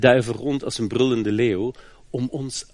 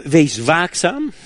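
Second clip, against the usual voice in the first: slow, sharp "Wees waakzaam"; stern apostle's call to watchfulness; sharp warning; 4 semitones higher, slower than usual. Retold or imitated. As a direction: warn them, sharp and measured. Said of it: "heel scherp".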